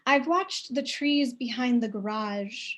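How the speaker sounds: measured, unhurried poem reading with long pauses; reading her own poem to an audience; poetry reading. Acted. Reads her poem aloud.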